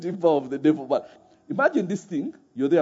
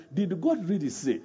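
devil's temptation. Retold or imitated. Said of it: "the way the devil comes and says".

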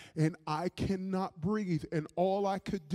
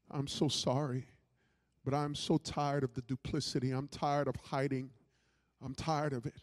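subdued confession; 2 semitones lower than usual. Retold or imitated. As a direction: voice the wife's apology with restraint. Wife's confession, retold in hushed tone.

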